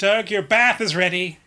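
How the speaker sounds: mild call, called out. Voicing a sister-in-law calling from the hut: screaming from the hut. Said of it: "your sister-in-law screams".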